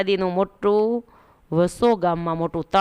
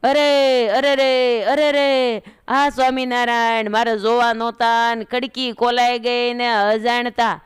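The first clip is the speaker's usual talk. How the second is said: put-on old woman shouting; 2 semitones higher than usual. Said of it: "બૂમો પાડે".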